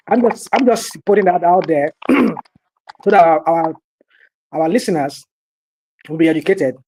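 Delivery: throat catching while talking; choking. Real, not acted. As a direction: speak through a choke. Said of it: "I'm choking here".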